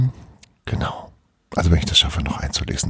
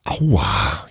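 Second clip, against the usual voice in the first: a lower, pained little whimper; whining ouch; 6 semitones lower than usual. Acted. Bruno after dropping the tool on his toes, a low pained whine. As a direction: moan it as the tool hits your toes. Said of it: "jammerte Bruno".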